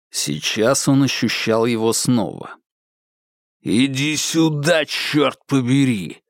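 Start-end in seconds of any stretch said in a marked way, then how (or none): 3.6-6.2 slow menacing growl. Acted. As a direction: growl it like a threat. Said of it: "прорычал Конгдон".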